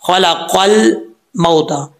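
खलक़ल मौता slowly, laam held still without a bounce; no echo on laam. Shown as a demonstration. Teacher showing a still laam to students, slow careful articulation. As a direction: separate खलक़ल cleanly from मौता, no qalqalah. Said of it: "कलकले से बचना है".

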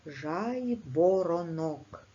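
Жайворонок said very slowly, every syllable clear with a full О after В; teacher's slow dictation of Жайворонок; slow careful spelling pronunciation. Shown as a demonstration. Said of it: "Після букви В в цьому слові завжди пишеться буква О".

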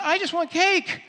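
high-pitched, flustered pleading; excited protest. Acted. Healed man puts off the questioners, excited and flustered. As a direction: protest that you only want to celebrate.

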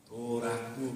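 도라쿠, 받침 없이 음절마다 모음을 붙여 일본식으로; 도라쿠를 일본 사람처럼 또박또박 풀어서; japanese accent korean. Shown as a demonstration. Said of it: "트럭 하면". (일본식 발음 흉내)

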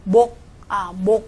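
목 said mok, ending on a stopped k; left-consonant reading. Shown as a demonstration. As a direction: demonstrate 목 with the ㅅ silent. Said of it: "那怎么读".

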